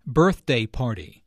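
"Birthday" stressed on BIRTH, "party" weaker; first element "Birthday" carries the stress; compound-noun stress. Shown as a demonstration. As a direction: hit the start of "Birthday", let "party" fall. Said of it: "normal stress for a compound noun falls".

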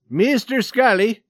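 loud, high call across the room. A narrator's reading. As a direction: call him by name, demanding. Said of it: "called the Swede again".

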